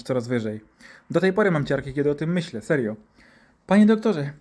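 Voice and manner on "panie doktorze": higher, lightly scolding nurse; a touch of prim warning; admonishing nurse. Acted. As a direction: remind the doctor with a mild reproach. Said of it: "upomniała go pielęgniarka".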